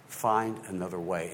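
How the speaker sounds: softly retold advice, low and deliberate; quiet plea. Wife's plea finally heard.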